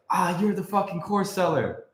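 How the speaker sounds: a sneering hater, slow and hammed-up; mock hater voice. Hater mocking the streamer, in a slow sneering put-on voice. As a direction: scoff at him like a hater calling out a course seller. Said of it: "they come at me like".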